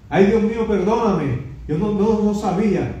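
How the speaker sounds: imitated terrified repentance; frightened Isaiah. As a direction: plead like a man about to die. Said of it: "Estaba pensando Isaías".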